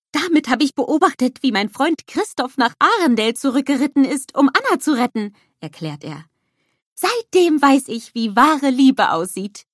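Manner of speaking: high, loud eager snowman voice; bubbly cartoon snowman exclaiming; Olaf calling out. A narrator's reading.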